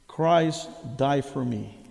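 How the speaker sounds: put-on the boy finally means it; kneeling student says it slowly at the cross; slow, solemn. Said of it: "looked at the cross and said".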